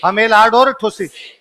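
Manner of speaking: हमेल, आड़ और ठुसी spelled out slowly, one word at a time; slow clear repeat. Shown as a demonstration. Teacher repeating the names slowly so the class can memorise them. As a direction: dictate each name slowly for the class. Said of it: "दोबारा बताओ कौन से?".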